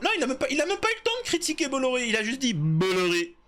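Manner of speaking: very high, fast squealed protest; mock outrage. Acted mock protest over one word. (protestation outrée, voix suraiguë et précipitée)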